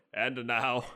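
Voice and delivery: slow, lightly ceremonial proclamation; knighting ceremony. Acted. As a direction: draw it out like dubbing a knight. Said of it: "being knighted as the Watcher".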